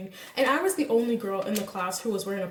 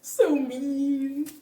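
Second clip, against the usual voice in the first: laughing; 5 semitones higher, much slower than usual. Retold or imitated. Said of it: "I was like".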